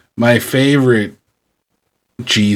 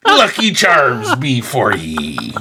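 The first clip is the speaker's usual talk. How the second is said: slow, laughing pirate brogue; pirate Irish accent; slower than usual. Retold or imitated. Host laughing through his pirate-Irish accent. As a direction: drawl it like a cartoon pirate. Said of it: "pirate accent".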